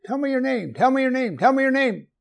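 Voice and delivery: wysoki, natarczywy głos proszącego; błagający Mojżesz. Acted. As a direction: powtarzaj prośbę wysoko, z naciskiem. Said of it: "Moses was leaning on the Lord and said".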